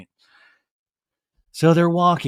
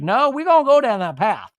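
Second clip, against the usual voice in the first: a half-hearted, high, loud Brittany voice; tired, underplayed Brittany impression; a hint of Brittany, not fully committed; Brittany accent, weak; 9 semitones higher, 5 dB louder than usual. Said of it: "my Brittany accent".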